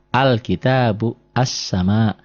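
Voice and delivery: al-kitabu, as-sama, each opening on a clear a; measured al-kitabu, then as-sama with doubled s; initial a sounded. Shown as a demonstration. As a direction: model al-kitabu and as-sama slowly. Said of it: "bunyinya jadi a".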